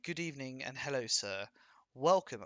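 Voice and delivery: a hint of stiff, proper English; posh British cliché. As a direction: lightly play the polite stage Englishman. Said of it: "the British people talk like this".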